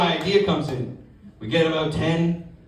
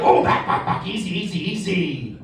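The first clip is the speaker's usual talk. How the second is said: mock soothing. Calming the child back.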